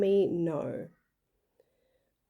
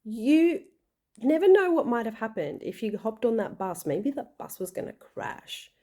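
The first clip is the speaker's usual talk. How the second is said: lighthearted; 3 semitones higher than usual. Retold or imitated. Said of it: "I just lightheartedly said to her".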